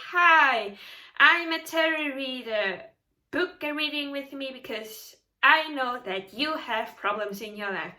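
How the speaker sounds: loud bright sales greeting, mock pushy; salesy tarot reader. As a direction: play a pushy tarot reader selling a reading. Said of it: "Tarot readers will not come to you and say".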